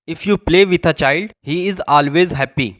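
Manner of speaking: very slow, word by word English; careful classroom reading; slow dictation. Shown as a demonstration. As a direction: spell it out slowly for learners. Teacher dictating English example.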